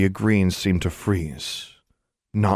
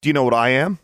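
raised voice, rising question; forced-out challenge; 6 semitones higher, 5 dB louder, faster than usual. A narrator's reading. Daughter confronting her mother about herself, forced-out challenge. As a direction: push the question out, higher and louder. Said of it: "words that she'd been forcing out".

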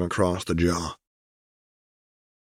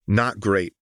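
flatly; 3 semitones higher than usual. A narrator's reading. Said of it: "Echo said flatly".

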